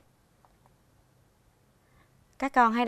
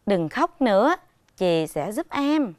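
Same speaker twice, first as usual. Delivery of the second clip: cheerful, upbeat. Acted. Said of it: "đọc với giọng vui vẻ, phấn khởi".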